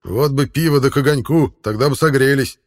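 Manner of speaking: mocking mimic. A narrator's reading. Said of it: "передразнил первый".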